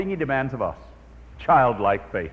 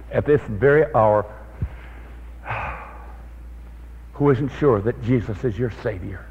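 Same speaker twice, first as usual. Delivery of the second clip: a pastor praying over the congregation, reverently; closing prayer. Acted. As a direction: pray gently over the congregation.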